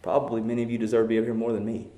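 usual speaking voice

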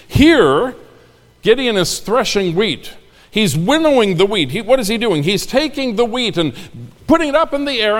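high, lively storytelling; animated. Acted. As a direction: vividly paint the scene.

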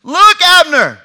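loud, high taunting call across the valley; mocking shout. David calling out to Abner, taunting and loud. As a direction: jeer at him from far off, voice ringing.

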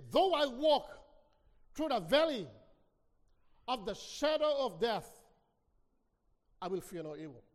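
scripture recitation. Acted. Preacher reading the psalm to the congregation, solemn. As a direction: recite the verse with weight.

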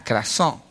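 "krasó" said with a hard k and a stressed final o; "krasó" spoken carefully, stress on the last syllable; Greek word krasó. Shown as a demonstration. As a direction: spell out "krasó" clearly with a hard k. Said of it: "con K".

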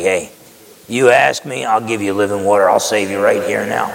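Jesus speaking gently to the Samaritan woman, tender; gentle. Retold or imitated. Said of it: "very gentle with her".

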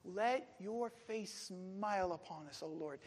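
slow, hushing prayer; understated imploring. Retold or imitated. David praying to God for friends, understated imploring. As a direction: implore gently, softening toward the end. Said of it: "an old Hebrew way of imploring God".

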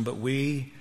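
soft, spaced out word by word; solemn declaration. Acted. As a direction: set each word apart, drawing out the last. Preacher delivers key verse deliberately.

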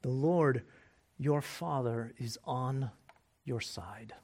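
soft whispered reassurance; hushed reassurance to a frightened listener; tender whisper. Real, not acted. Closing comfort to congregation.

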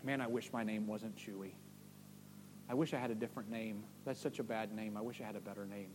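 low, soft, glum dog voice; hushed self-pitying pet; moping dog. Pretend. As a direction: sulk as the dog about its name. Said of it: "my dog sit there and go".

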